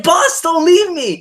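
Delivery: high, slow pleading whine; whiny Comey impression. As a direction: beg the boss not to leave.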